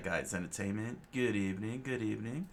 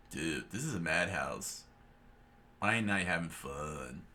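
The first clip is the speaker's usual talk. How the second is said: lower, easygoing surfer voice; laid-back dude; 3 semitones lower than usual. Acted. Luffy bored in the chaos, low and laid-back. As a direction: slack and unbothered.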